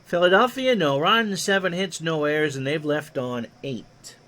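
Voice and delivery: lightly voiced old radio play-by-play; a hint of a veteran baseball announcer; Ron Juckett impression. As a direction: call it like a ballpark broadcaster, easy and even. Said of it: "My Ron Juckett impersonation is sufficient".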